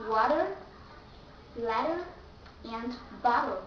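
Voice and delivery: water, letter, bottle with T turned into D; flat T. Shown as a demonstration. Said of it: "you have to change T into the".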